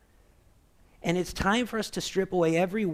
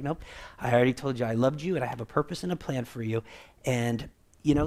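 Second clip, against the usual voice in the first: calm, loving God; 4 semitones lower, faster than usual. Retold or imitated. God answering his frantic people: a touch of loving calm. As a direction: reassure a panicking child, quickly and gently. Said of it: "the voice of God is so clear and loving".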